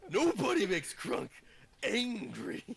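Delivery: mildly hammed-up anger; a touch of character rage, rising at the end; angry Crunk. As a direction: lightly play the offended brute. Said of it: "Crunk's gonna turn around".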